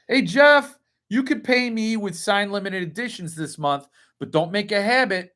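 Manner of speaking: lightly played landlord laying down terms; mock landlord. Landlord jokingly offering Jeff a rent deal, playful mock address.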